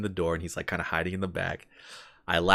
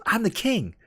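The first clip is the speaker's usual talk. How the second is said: very high mock proclamation; self-declared king; 4 dB louder than usual. Man in a tree claiming the crown, high mock proclamation. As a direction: proclaim it in a high-pitched character voice. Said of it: "The guy goes".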